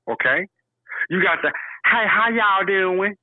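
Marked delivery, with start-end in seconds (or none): 1.8-3.1 slow, friendly Southern greeting; Southern drawl. Retold or imitated. Imitating a Southern greeter for his friend, in a slow drawl. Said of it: "three different kinds of down south dialect".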